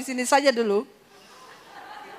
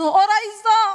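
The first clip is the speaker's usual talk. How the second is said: put-on higher, louder childish no; loud refusal; 7 semitones higher, 5 dB louder than usual. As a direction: refuse him sharply. She refuses loudly.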